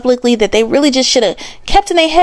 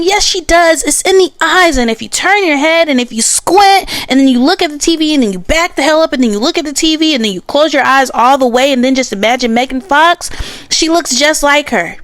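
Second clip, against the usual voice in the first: mocking defenders; 3 semitones higher than usual. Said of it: "there are people saying".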